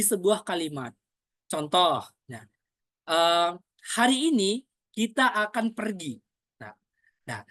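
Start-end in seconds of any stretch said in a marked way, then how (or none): 3.9-6.2 statement with "pergi" emphasized, then falling; stress on pergi. Shown as a demonstration. Coach shows intonation example, "pergi" stressed as a statement. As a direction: lean on "pergi" and close the sentence. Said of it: "perginya kita tekankan".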